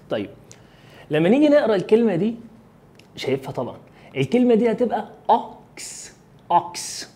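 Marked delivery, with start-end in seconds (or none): 5.3-7.1 American accent, open "ah" in أوكس; نطق أمريكي. Shown as a demonstration. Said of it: "احنا بنتكلم American accent". (لكنة أمريكية بألف مفتوحة في أوكس)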